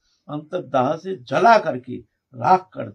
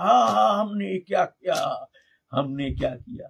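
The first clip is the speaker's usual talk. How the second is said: mock crazed shouting; 3 semitones higher than usual. Preacher voices the locked-in man crying remorse, mock crazed shouting. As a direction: imitate a madman's cry, fading at the end. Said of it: "बड़ा जम के चिल्ला रहा".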